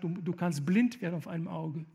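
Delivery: usual speaking voice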